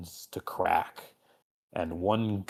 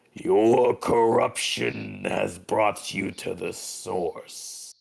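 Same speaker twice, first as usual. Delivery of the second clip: slow demon lord; 3 dB louder, slower than usual. Acted.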